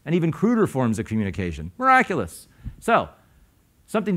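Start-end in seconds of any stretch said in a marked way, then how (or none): 1.8-2.5 shoots way up, a hammed-up wonder; mock awe. Teacher to audience, mock amazed that words work at all. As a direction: play it as wide-eyed mock amazement. Teacher marvels at clumsy communication.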